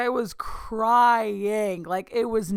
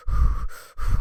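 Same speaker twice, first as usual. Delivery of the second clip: hyperventilating gasp; 5 dB louder than usual. Retold or imitated.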